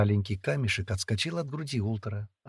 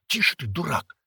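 raised, lightly tearful hushing; sobbing rebuke; 6 semitones higher than usual. A narrator's reading. Girl hiding tears from the boy, tearful. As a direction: hush him through a mild sob. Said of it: "всхлипнула Вилейка".

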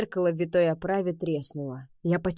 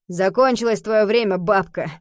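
spat with malice; 3 semitones higher, 7 dB louder than usual. A narrator's reading. Elder soldier spitting spite at the old woman, loud spiteful. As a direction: spit it out with spite. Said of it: "со злом плюнул".

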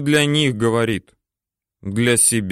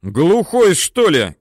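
much higher, louder yell; angry shout; 8 semitones higher, 4 dB louder, slower than usual. A narrator's reading. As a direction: bawl at the gunner. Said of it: "кричит взводный".

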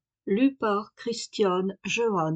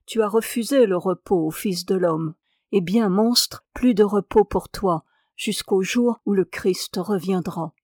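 understated wrath at the wanderer; irritated angel. Acted. Angel of death rebuking Ahasver, a touch of anger. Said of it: "dit d'un ton courroucé".

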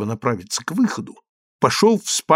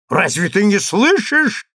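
higher, louder insistence; insisting; 7 semitones higher, 4 dB louder than usual. Acted. Consul insisting at the locked door, raised voice. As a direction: press her impatiently. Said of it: "настаивал консул".

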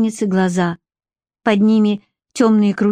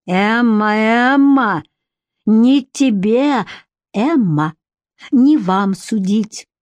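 hot-tempered outburst, stumbling; heated exclamation; much slower than usual. A narrator's reading. Andrey flaring up at Emma, heated and flustered. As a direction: flare up and trip over the words. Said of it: "запальчиво воскликнул он".

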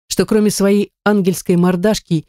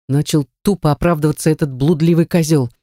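ordinary delivery, nothing marked

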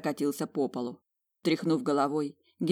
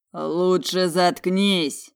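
slow, louder roar; slow furious roar; 2 semitones higher, 7 dB louder, much slower than usual. Acted. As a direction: roar it out, dragging each word. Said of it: "Взревев".

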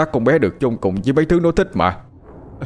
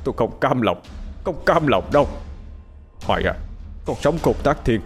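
a father howling his grief at the sky; wailing to heaven; 3 semitones higher than usual. A narrator's reading. Grieving father cries out to heaven for justice, anguished wail. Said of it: "gào lớn".

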